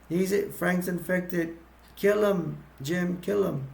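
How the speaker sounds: high-pitched, restrained mock yell; retold yelling. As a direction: imitate urgently calling out an order. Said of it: "Selena yells at Jim".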